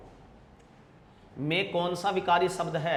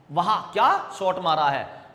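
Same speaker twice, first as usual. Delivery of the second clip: वाह क्या शॉट मारा है said as a slightly louder admiring cry, weight on क्या; mild exclamation; 4 dB louder than usual. Shown as a demonstration. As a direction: cheer the shot, a bit louder. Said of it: "ऐसा चिन्ह लगा लेते हैं हम पीछे".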